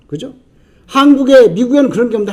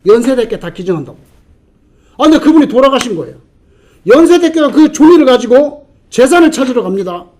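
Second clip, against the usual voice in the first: ordinary talk, nothing marked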